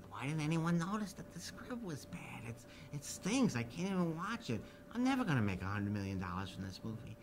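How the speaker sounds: Jimmy whispering during the screening, dismayed. Retold or imitated. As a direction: confess it under your breath in the dark. Imitating Jimmy's despair.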